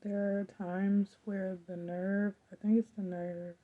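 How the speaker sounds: talking through throat pain; sore throat voice. Real, not acted. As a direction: speak carefully around a painful throat. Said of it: "Talking after a while starts to hurt".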